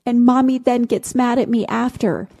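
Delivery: a hint of a young girl confiding; imitating a little girl. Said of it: "And she said".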